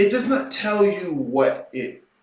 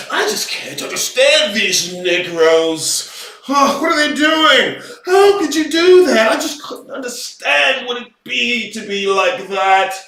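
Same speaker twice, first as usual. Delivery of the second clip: lightly voiced pearl-clutching bystander, higher on the questions; half-parody a fake-baffled liberal; mock virtue signaler; 3 semitones higher than usual. Mocking people who signal virtue by feigning confusion, mildly hammed-up. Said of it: "in the reverse virtue signal way".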